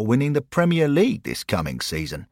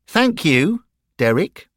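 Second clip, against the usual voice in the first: Bill cutting in quickly, a little higher; brisk interruption of a chatterbox boy; 10 semitones higher, 7 dB louder than usual. A narrator's reading. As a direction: cut him off quickly. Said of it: "Bill quickly interrupted".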